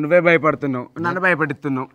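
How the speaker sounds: loud accusation. Real, not acted. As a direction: throw the blame back loudly. Accuses companion of spreading fear.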